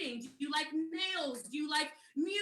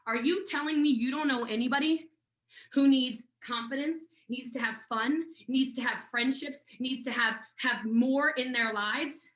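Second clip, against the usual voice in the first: sponsor's challenge; 3 semitones lower, 4 dB louder than usual. Retold or imitated. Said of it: "my sponsor calls me and she says".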